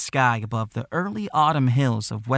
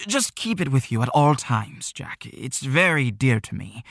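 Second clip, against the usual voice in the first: a hint of a flustered old man; lightly voiced anxious elder; worried old shopkeeper. Worried Mister Wheeler entrusting box.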